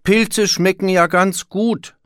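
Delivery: high, loud, slow singsong; calling out. A narrator's reading. Wolf answering the proud mushroom finder, calling out. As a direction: call it over in a high wolf-pup voice. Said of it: "rief Willi".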